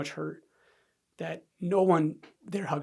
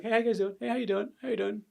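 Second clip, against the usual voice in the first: higher-pitched round of hellos; acted-out breezy greeting; 6 semitones higher, faster than usual. Son arriving at awkward family barbecue, breezy greeting.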